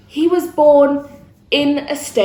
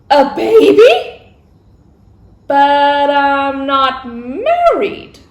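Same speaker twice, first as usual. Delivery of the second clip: surprised Mary; much slower than usual. Acted. Mary shocked by the news.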